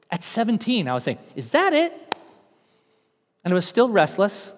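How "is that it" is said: desperate question. Retold or imitated. Repeated, high and strained.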